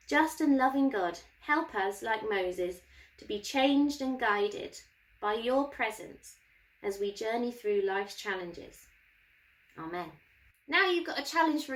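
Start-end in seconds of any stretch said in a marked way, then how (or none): 0.1-10.1 prayer. Acted. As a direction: pray gently and evenly. Leads class prayer.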